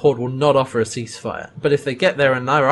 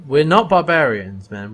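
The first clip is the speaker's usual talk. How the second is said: mock protest; 5 dB louder than usual. John insisting to Grimes he's no barbarian. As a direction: protest it like an offended guy. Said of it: "and John's like".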